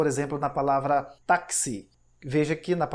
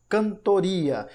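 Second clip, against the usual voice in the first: slow syllable-by-syllable reading; 3 semitones higher, 3 dB louder, much slower than usual. Shown as a demonstration. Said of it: "temos aí o N e o T".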